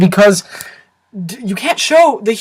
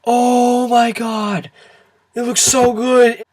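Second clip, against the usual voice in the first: mock trailer hype; much slower than usual. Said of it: "the trailers were like".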